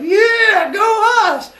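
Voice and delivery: high, loud goofy cheer; the farmers cheer for themselves, high and loud. Retold or imitated. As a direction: pitch it up and whoop.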